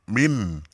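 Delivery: MIN ending in a distinct, clear n; clear nun. Shown as a demonstration. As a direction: say MIN slowly with a clear final n. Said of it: "tuh jelas kan".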